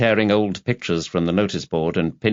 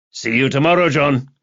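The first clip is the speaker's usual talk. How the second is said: lightly voiced higher goodbye; breezy colleague's farewell; 6 semitones higher, 3 dB louder than usual. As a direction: toss a lifted goodbye to a workmate. Campbell calls goodbye from doorway.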